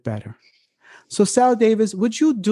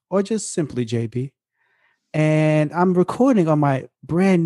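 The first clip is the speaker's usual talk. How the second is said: radio voice. Pretend. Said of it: "get in my radio voice bag today".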